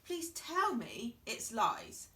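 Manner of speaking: slow, pleading; mild tearful plea. Acted. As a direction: beg with a touch of tears. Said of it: "tears filled up".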